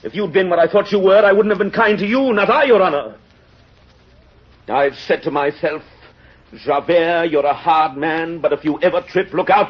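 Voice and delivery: high and insistent, hard on himself; self-condemning. Acted. Javert to the mayor, condemning himself, high and insistent. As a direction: lay out his own rule like a sentence.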